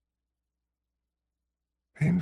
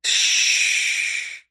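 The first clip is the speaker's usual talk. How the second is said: soothing shh. A narrator's reading. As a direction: gently hush her. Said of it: "I soothe".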